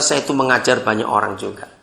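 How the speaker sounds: ordinary delivery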